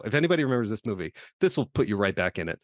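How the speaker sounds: put-on light Boston accent; a hint of Boston accent, rattled off. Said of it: "my worst Boston accent right now".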